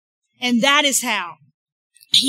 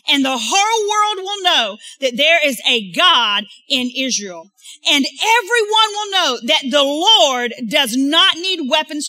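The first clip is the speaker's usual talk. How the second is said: shout; 3 semitones higher, 5 dB louder than usual. Acted. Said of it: "David shouted in reply".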